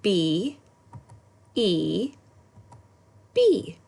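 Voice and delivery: high excited spelling finish; bright high spelled word. Shown as a demonstration. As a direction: cheer the word out to the class. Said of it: "And one more time".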